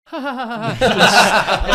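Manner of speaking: high, loud taunting laugh, hammed up; mocking snigger. Retelling how the defender sniggered at him, loud mock laugh. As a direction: cackle at him like a gloating opponent. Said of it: "and sniggered at me".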